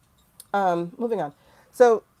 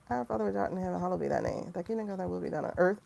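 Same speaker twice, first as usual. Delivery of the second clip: prayer with intention; 7 dB quieter, faster than usual. Shown as a demonstration. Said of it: "say it with more intention now".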